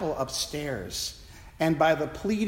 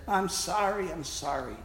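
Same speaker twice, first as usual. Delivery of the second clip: imitating a sob; 5 dB quieter than usual. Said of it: "he sobbed and said".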